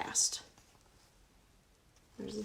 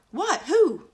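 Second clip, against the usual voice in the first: high, loud startled question; surprised princess; 8 semitones higher, 9 dB louder than usual. Acted. Princess startled by the dog, high and loud. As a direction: gasp it out. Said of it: "wondered the princess".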